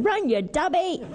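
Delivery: high-pitched comic cry of warning; exasperated urging. Retold or imitated. Child calling to the martyr in the field, high exasperated cry. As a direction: urge him on like an exasperated kid. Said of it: "I remember one time".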